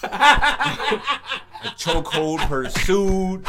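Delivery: slow, drawn out through laughter; laughing. Real, not acted. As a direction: stretch it out laughing.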